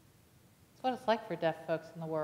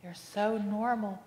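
tearful; slower than usual. Retold or imitated. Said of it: "She started crying".

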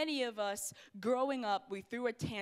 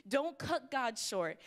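slow emphatic; slower than usual. Real, not acted. Sermon refrain.

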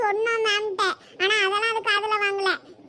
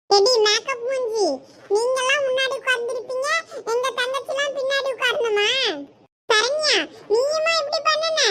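higher, scolding schoolgirl voice; angry girl voice; 4 semitones higher than usual. Acted. Older sister scolding Hema for the seating, high and sharp. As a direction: tell off the made-up rival. Character confronting a rival.

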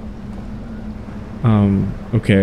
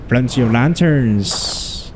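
a light, unintended Irish lilt; slipping into Irish; slower than usual. Pretend. Gamer musing on lanterns in a faint mock Irish accent. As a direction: drift into a mock Irish accent, slowing on the repeat. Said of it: "Why am I speaking like an Irishman?".

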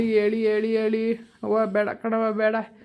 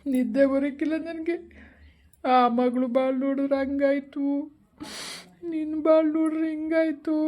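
higher, choking on the words as he grieves; tearful lament; 4 semitones higher than usual. Acted. Father grieving to his daughter about her ruined marriage, tearful and higher. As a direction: weep out the regret over his life. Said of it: "ನೀನೇನು ಅಳ್ಬೇಡ ಸುಮ್ನಿರಪ್ಪ".

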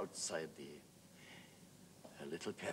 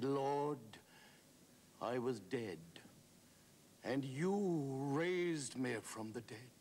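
anguished appeal; 7 semitones higher, slower than usual. A narrator's reading. The weeping man answers his Lord, anguished. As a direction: cry it out in raised, drawn-out phrases.

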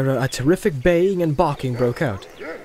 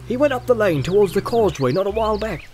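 rustic farmer sharing news; countryman's lilting chat; hospitable farmer. Acted. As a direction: invite the visitors in for a drink.

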